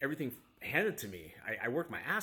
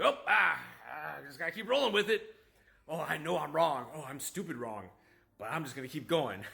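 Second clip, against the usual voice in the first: mock stubborn younger self; 2 semitones higher than usual. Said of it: "the younger me".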